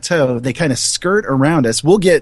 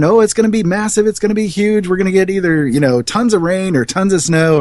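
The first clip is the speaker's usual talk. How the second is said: higher, quicker mock storm hype; mock alarmed hollering; 6 semitones higher than usual. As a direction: imitate excited forecasters without really yelling. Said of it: "they're screaming and hollering".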